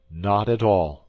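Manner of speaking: calm, even reply; calmly. A narrator's reading. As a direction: say it calmly and coolly. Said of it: "said Athos calmly".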